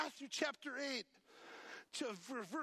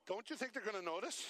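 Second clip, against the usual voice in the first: quick aside; faster than usual. Retold or imitated. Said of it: "others are going".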